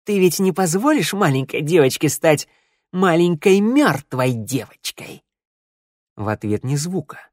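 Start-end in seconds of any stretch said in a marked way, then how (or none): 0.0-5.2 high, sing-song mock concern; menacing taunt. A narrator's reading. Shnyryala goads the hidden man over his conscience, taunting. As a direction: needle him, stretching the final words.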